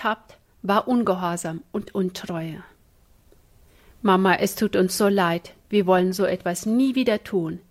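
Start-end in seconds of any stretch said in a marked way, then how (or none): 4.0-7.6 contrite. Acted. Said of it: "sagten die Kinder betroffen".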